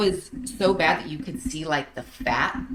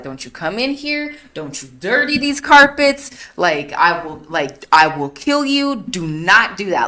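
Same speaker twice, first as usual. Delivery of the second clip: mom's threat; 2 semitones higher, 3 dB louder than usual. Retold or imitated. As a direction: play the furious mom warning off the boys. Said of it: "And she was like".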